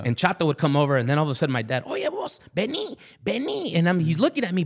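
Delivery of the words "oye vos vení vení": much higher, slow calling voice; mock dad calling across the house. Dad calling son over, high and slow.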